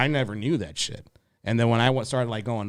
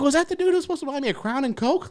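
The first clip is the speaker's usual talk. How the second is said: higher and fast, laughing through it; laughing disbelief; faster than usual. Retold or imitated. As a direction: ask it half laughing in disbelief. Incredulous laughing question.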